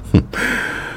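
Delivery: quiet, voiceless huff of a laugh; small, soft scoff; short dry laugh. Acted. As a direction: laugh softly through the breath. Wry reaction to question about father.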